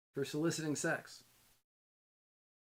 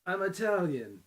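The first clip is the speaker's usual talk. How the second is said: quoting Cuomo; 4 semitones higher, 7 dB louder than usual. Retold or imitated. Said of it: "he said".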